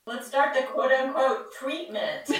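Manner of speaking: laughing. Pretend. Teasing the romantic line.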